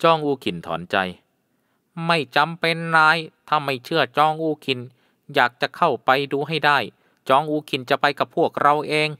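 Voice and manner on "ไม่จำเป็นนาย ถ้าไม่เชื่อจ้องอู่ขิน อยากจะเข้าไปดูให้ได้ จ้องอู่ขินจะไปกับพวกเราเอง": proud headman. A narrator's reading. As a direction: insist you will go yourself. (จองอูคินเสียงสูงดังขึ้น ช้า ศักดิ์ศรีถูกแตะ)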